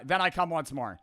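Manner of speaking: Italian accent. Shown as a demonstration. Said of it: "I don't know how to do it in Italian accent".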